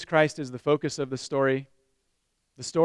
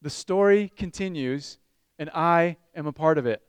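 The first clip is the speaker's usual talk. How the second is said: put-on broad singsong kids theatre. Shown as a demonstration.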